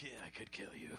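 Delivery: very low, quiet lion murmur; nonchalant lion voice. Retold or imitated. Lion to startled man behind the fence, low understated menace. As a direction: play a lion too sure of itself to raise its voice.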